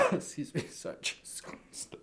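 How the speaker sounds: real cough-strangled, nearly voiceless rasp; choked from coughing. Real, not acted. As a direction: voice gone to a whisper. Coughing fit mid-sentence.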